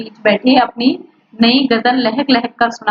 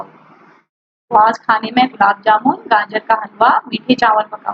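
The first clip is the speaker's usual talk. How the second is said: imitating mother. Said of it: "सलीम ने किताब रखकर अम्मी की नकल उतारी".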